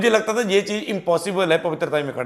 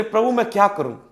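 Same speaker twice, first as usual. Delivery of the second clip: raised, pleading cry to the Lord, one worry after another; pleading believer's prayer; 5 semitones higher than usual. Acted. Believer crying out to the Lord over troubles, pleading higher. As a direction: beg God for help, rising in distress. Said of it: "ऐसा कोई हालात जिसके विषय में आप सोच रहे".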